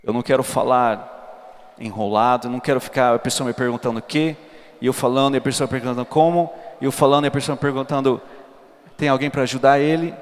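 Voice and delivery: ordinary talk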